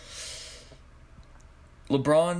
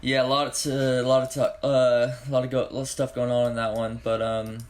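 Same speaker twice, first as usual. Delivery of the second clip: groggy, half-awake voice; just woke up. Real, not acted. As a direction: talk like you just woke from a nap. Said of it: "just can't talk right now".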